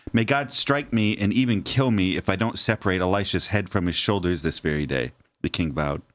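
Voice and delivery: measured read-aloud narration; scripture reading. A narrator's reading. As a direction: read the Bible passage out clearly and evenly. Reads scripture passage aloud.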